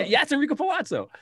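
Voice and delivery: high, loud delighted echo of the famous line; quoted catchphrase. Retold or imitated. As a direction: shout the name like the movie crowd. Echoes the movie catchphrase.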